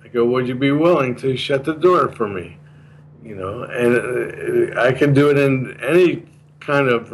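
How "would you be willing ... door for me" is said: polite request. Shown as a demonstration. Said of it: "sounds like a request".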